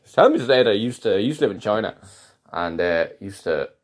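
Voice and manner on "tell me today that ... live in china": fast, higher mocking imitation; mimicking colleague. Imitating the colleague bragging about his past, mocking. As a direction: rattle off his boast in a mock voice.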